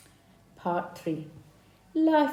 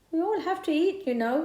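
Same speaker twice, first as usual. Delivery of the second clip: spider voice; 10 semitones higher, 5 dB louder than usual. Acted. Spider justifies eating insects.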